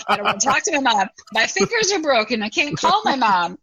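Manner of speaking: put-on high, fast, whiny grown-up child; mock your adult kids' lame excuses. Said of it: "'cause they go".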